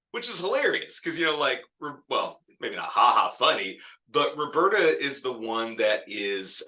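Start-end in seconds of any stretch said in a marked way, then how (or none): none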